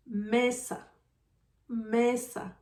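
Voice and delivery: "mesa" with the strong sound on "me"; stress on first syllable. Shown as a demonstration. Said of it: "Where do you hear the strong sound?".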